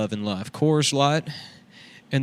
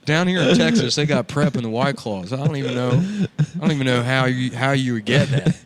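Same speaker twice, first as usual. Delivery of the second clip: lightly voiced Southern redneck; Cletus character. Cletus bragging about Texas, lightly redneck. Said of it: "my name's Cletus".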